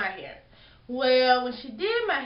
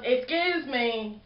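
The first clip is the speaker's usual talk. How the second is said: slow drawn-out snippy excuse me; mock-rude drawn-out excuse me; slower than usual. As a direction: imitate her rude tone. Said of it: "So she goes".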